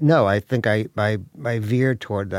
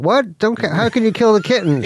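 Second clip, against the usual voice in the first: pitched way up in appalled disbelief; incredulous, voice jumping high; shocked disbelief; 9 semitones higher, 3 dB louder than usual. Retold or imitated. Crowd reacting to Hitler's kitten plan, appalled and high. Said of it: "people are like".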